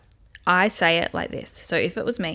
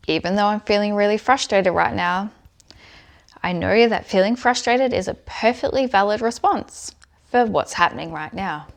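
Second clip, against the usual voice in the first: spoken firmly and a little louder, like a self-affirmation; tapping affirmation; 2 semitones higher, 4 dB louder than usual. Shown as a demonstration. Coach demonstrating tapping to viewers, firm affirmation voice. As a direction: affirm the feeling out loud while tapping. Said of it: "I'm gonna do the points now while I'm going through".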